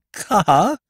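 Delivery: high, frightened quaver; a startled, shaky single word. A narrator's reading. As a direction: narrator suddenly realising the stolen car, quavering. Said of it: "I quavered".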